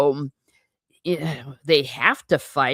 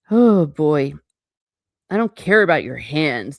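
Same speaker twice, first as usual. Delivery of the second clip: angry Dunk; 5 dB louder than usual. Acted. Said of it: "Duncan's all mad".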